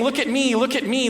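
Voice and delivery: put-on high, loud overlapping children's calls; kids shouting. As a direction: shout over each other for attention. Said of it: "They start shouting over the top".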